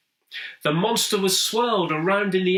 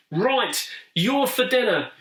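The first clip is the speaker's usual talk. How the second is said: a rising, raised threat of a cry; furious; 7 semitones higher than usual. A narrator's reading. Monster threatening Henry, furious and raised. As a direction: make it a menacing promise. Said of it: "cried the monster, quite furious".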